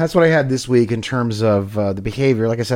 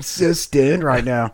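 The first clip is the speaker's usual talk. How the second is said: slow, dazed stoner voice; stoned; much slower than usual. Pretend. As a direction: drag it out like a stoner. Playing the stoned owner.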